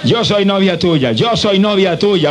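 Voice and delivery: slow, deliberate declaration for the congregation to repeat; slow confession prompt. Shown as a demonstration. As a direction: say it slowly so they repeat it. (declaración lenta para que repitan)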